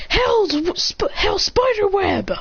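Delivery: high, drawn-out technique call; attack call. Acted. Character shoots fire forward, high drawn-out attack call.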